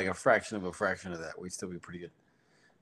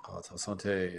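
French echo; much slower than usual. Shown as a demonstration. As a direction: repeat "Ah, ta sante" in a plain French accent. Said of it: "always go proper this time".

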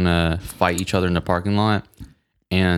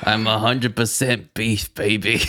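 showing off; 3 semitones higher, slower than usual. Pretend. Slow sausage brag.

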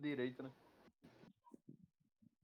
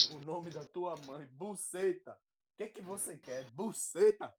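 deadpan answers to mock questions; comic call and response; 4 dB louder, slower than usual. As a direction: play the joke interview. (pergunta e resposta cômica)

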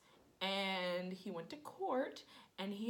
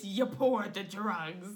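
slow, louder stern detective; 6 dB louder, slower than usual. Retold or imitated. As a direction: play a probing cop, slowly. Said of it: "your detective voice".

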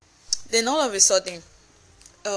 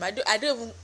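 tripping over words from annoyance; stammering; much faster than usual. Real, not acted. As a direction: stumble and restart the words. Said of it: "I'm so annoyed I'm actually stammering".

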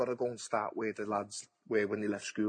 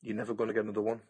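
fast, urgent; faster than usual. Shown as a demonstration. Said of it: "the advice I gave to him".

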